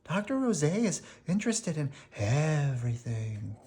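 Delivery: a crowd of impressed Londoners chattering about the doctor; eager townspeople marvelling at a new genius; admiring townsfolk. Acted. Townsfolk praising Doctor Roset.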